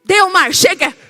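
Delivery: hammed-up fed-up rebuke; angry command. Woken Jesus rebuking wind and sea, angry. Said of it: "foi pro templo virar as mesas".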